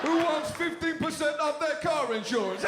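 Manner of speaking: put-on high, brash Jersey American accent as an ad squirrel. Comic plays a squirrel mascot in a Jersey American accent. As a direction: pitch car insurance in a Jersey American accent. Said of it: "American accent I can do".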